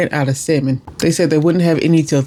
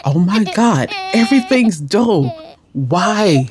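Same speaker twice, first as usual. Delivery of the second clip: laughing exasperation; 4 semitones higher, slower than usual. Retold or imitated. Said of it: "I'm like".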